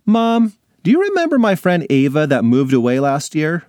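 put-on a kid making her case; girl voice. Alex argues with mom.

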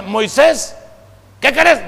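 imitated shout. Child answers father from another room, imitated shout. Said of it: "aquí a gritos".

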